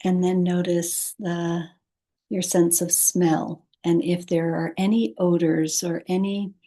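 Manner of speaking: calm, unhurried guidance with long pauses; guided meditation. Acted. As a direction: ease the listener toward sleep, pausing between phrases. Leads a meditation.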